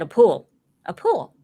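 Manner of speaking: Southern pool with an added syllable; Southern accent. Retold or imitated. Southerner telling a northerner about swimming, Southern accent. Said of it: "I add a syllable to everything".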